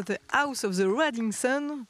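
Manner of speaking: titre anglais avec un fort accent français; titre de chanson anglais prononcé à la française, lentement. Real, not acted. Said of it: "avec mon accent qui est un petit peu déplorable". (dire le titre de la chanson avec un accent français appuyé)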